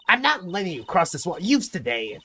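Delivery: put-on old lady voice. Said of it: "the old lady voice".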